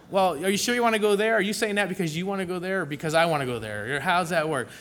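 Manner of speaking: fast, laughing through the questions; laughing retelling. Retold or imitated. Husband retelling his dinner haggling with his wife, laughing.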